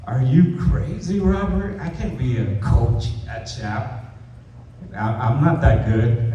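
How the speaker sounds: high-pitched disbelieving coach; imitating a panicked coach. Coach balking at Robert's job suggestion, imitated panic. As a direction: squeak out the coach's panic, then fall back to doubt. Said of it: "He's like".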